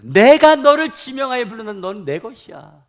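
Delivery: high, loud divine declaration; ringing pulpit quotation; forceful scripture proclamation. Acted. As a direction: proclaim it as God's own claim. Quotes God's declaration to congregation.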